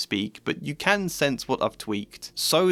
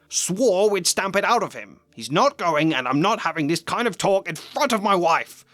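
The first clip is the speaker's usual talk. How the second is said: higher and louder, building anger; a hammed-up furious uncle; angry Vernon; 8 semitones higher, 4 dB louder than usual. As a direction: stamp out the boy's nonsense. Vernon rages on.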